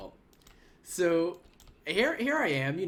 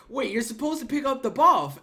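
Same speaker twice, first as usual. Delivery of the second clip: frustrated raider; 8 semitones higher, 6 dB louder than usual. Retold or imitated. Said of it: "there was dudes just like".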